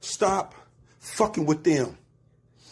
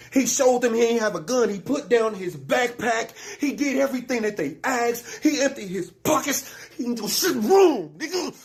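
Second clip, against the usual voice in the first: heated and higher, rising anger; angry outburst; 5 semitones higher than usual. Real, not acted. Angry rant about killed boy.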